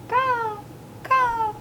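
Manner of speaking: high crow calls; cawing crows. A narrator's reading. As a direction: caw like a crow. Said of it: "The crows croaked".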